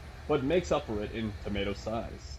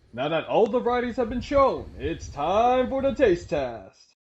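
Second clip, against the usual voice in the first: higher and louder, slow on the last words; excited announcement; 8 semitones higher, 5 dB louder, slower than usual. Real, not acted. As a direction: build up the taste test with excitement. Announcing the taste test.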